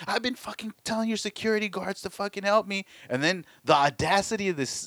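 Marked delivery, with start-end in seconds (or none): 0.1-2.8 high-pitched exasperated complaint; indignant rant, acted out without shouting; mad client. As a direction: imitate a fed-up client venting at the supervisor. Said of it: "He's all mad and shit".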